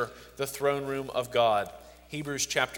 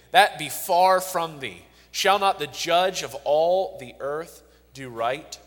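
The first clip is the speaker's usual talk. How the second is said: scripture reading. Acted. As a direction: plead Abraham's words with weight. Reads Abraham's plea from scripture.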